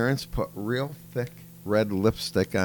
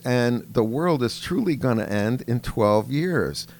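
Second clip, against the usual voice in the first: higher, louder mock child voice; a hammed-up schoolgirl presenter, pitched up; imitating a little girl; 4 semitones higher, 4 dB louder than usual. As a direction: play the kid doing a grown-up speech, higher and louder. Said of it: "And she goes".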